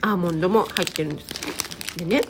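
talking with a mouth full. Real, not acted. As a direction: speak through a mouthful of crunchy snack. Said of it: "食べながら話しちゃいけませんね".

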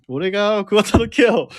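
laughing. Real, not acted. Laughing at a listener comment.

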